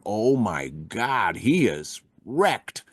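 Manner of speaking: slow, drawn-out dawning realisation; slow retold dismay; retold stunned disbelief. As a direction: let it sink in slowly, word by word. Retold realisation his hero is wrecked.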